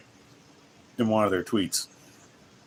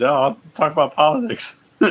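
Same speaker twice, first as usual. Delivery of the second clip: higher, louder mock commenter voice; hammed-up jeering quote, pitched up and loud; mocking imitation; 6 semitones higher, 6 dB louder than usual. Streamer teasing whoever said talk about politics, mocking imitation.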